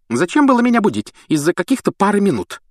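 put-on high grumbling old-lady voice; grumbling Fat Lady. A narrator's reading. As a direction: grumble at being woken. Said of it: "пробурчала вдогонку полная дама".

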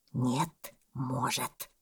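low, soft boa reply; calmly objecting boa. A narrator's reading. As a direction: insist quietly, without any fuss. Boa repeats his calm objection. (удав, низко, тихо, невозмутимо)

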